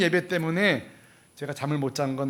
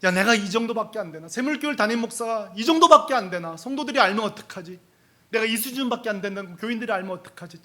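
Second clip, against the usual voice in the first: mild, higher-pitched self-reproach; retold self-anger; 5 semitones higher, 3 dB louder than usual. Pastor berating himself over his weak faith, mildly angry. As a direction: scold yourself, only moderately heated. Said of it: "막 화가 나는 거예요".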